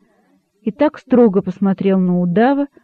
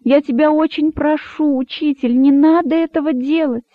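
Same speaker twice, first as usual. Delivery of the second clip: higher, earnest pleading; imploring the teacher, pitched up; 7 semitones higher than usual. Acted. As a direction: beg him not to do it, voice lifted high. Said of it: "взмолился кролик".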